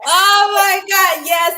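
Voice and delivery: high, loud, slow delighted cry; real squeal of delight; excited. Real, not acted. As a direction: burst out, thrilled at the praise. Host praises her book.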